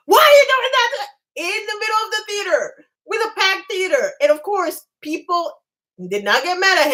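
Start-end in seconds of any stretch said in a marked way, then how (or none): 0.1-4.1 high-pitched mock wail of panic; screaming like a banshee. Wife imitating her husband in the theater, banshee screaming. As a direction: imitate a panicked husband shrieking, voice pushed high without real volume. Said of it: "starts screaming like a banshee".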